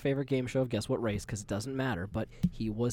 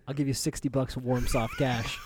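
offer through laughter. Retold or imitated. Retelling the lowball offer, laughing through it. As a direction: fight back a laugh while repeating the offer. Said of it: "I was like".

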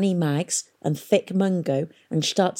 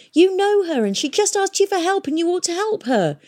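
high, indignant outburst; shouting; 13 semitones higher, 3 dB louder than usual. A narrator's reading. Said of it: "shouted Tom again".

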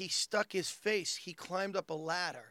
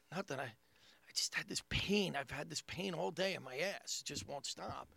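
downplayed pain; 2 semitones lower, 7 dB quieter than usual. Brother playing down his pain.

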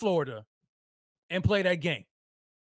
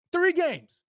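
incredulous jab; 10 semitones higher than usual. Real, not acted. Mocking Dolphins' collapse.

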